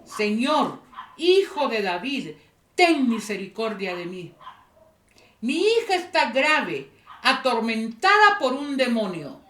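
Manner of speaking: preacher voicing a woman's loud plea; imploring cry, mildly acted; crying out in appeal. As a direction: call out the plea in separate, emphatic bursts. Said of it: "y clamaba".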